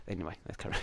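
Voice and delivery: sheepish whisper; embarrassed whisper after singing; whispered aside. Real, not acted. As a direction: drop to a whisper to move on.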